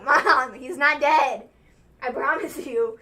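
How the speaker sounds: loud, drawn-out protest to a parent; exasperated retold insistence. Telling Mom that man is alive, exasperated retold insistence. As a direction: insist loudly, peaking on the last phrase.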